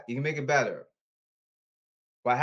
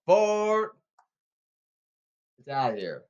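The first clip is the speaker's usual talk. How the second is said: excited call; slower than usual. Acted. Announcer calling a home run, excited call.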